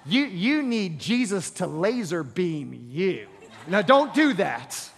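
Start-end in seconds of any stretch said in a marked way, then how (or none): 0.1-3.3 lowered, mock-solemn wife scolding her husband; a hint of wifely reproach, pitched low; lightly voiced nagging wife. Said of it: "do not turn to them and say".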